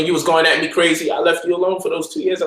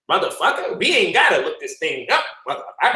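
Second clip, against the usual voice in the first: Cat Williams voice. Retold or imitated. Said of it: "that Cat Williams voice".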